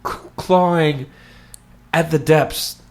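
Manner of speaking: slow, portentous mock-horror intro; mock ominous. Podcast host building up the next segment, mock ominous. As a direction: draw it out with heavy dramatic pauses.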